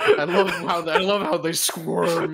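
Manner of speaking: a touch of creepy witch; hint of a sinister crone. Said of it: "that creepy voice you were doing".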